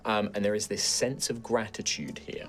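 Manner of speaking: softly told scene setting; game master narration. Acted. Game master describes the grateful forest healing, soft narration. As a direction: narrate gently with measured pauses.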